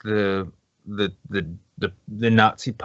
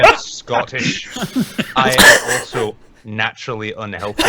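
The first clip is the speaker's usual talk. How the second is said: laughing through the words. Real, not acted. Retelling Dankula's response to the vegan, laughing. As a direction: crack up while delivering the punchline.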